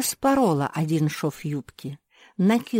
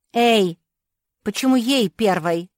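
indignant; 6 semitones higher, 7 dB louder than usual. A narrator's reading. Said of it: "возмутилась Нинон".

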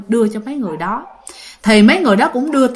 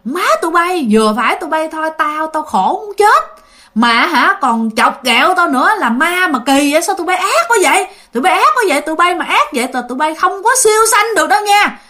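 mild mock scolding of the ghosts, pitched higher; retold angry scolding; 4 semitones higher than usual. Great-grandma curses the ghosts who paid with hell money: mild mock scolding. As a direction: tell off the prankster ghosts, half-acted. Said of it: "bà cố mới chửi".

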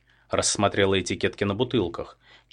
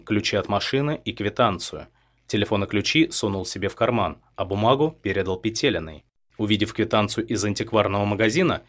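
plain reading voice

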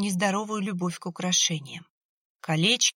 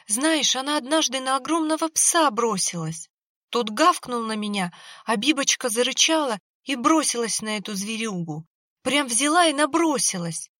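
tearful excited praise; 4 semitones higher, 4 dB louder than usual. Acted. Grieving owner praising her dog.

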